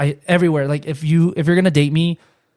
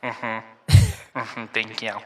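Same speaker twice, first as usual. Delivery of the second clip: low, deadpan store intercom voice; Walmart announcer; 4 semitones lower than usual. Pretend. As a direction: scold a shopper over the PA. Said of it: "be, like, the Walmart guy".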